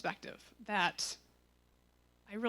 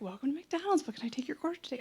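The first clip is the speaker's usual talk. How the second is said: higher-pitched, pleasant drive-thru greeting; 5 semitones higher, faster than usual. Retold or imitated. Worker greeting a customer at McDonald's, so pleasant. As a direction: imitate a pleasant order-taker. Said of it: "they're, like, so pleasant".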